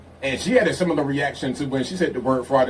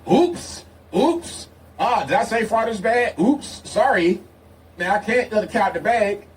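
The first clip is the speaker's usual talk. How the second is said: high-pitched fake apology for blurting it out; mock oops; 7 semitones higher than usual. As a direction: play innocent, voice pitched up. Mock slip of the tongue.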